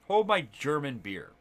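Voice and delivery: slowed down, leaning on "Hold" and "German". Retold or imitated. Friend topping his own boast, slow and deliberate. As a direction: draw out "Hold my German beer" for the joke. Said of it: "And he's like".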